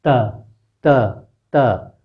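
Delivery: त said with the tongue tip against the teeth; teacher repeating the dental त; dental त demo. Shown as a demonstration. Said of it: "अब जीभ सीधे कर लीजिए".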